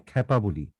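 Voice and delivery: খেপা as "khæ-pa"; open 'æ'. Shown as a demonstration. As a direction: confirm খেপা with a wide first vowel. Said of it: "কেন বলি?". (খেপা-র উচ্চারণ "খ্যাপা")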